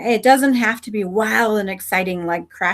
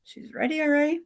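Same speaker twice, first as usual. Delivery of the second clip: Samson's voice; 7 semitones higher, 3 dB louder than usual. Acted. Samson at the hilltop, boldly starting down. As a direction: brag like a daring rider. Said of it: "He's like".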